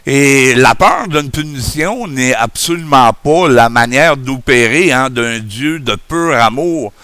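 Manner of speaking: speaking without dentures; gummy toothless speech. Real, not acted. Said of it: "comme un bon vieux vieillard édenté".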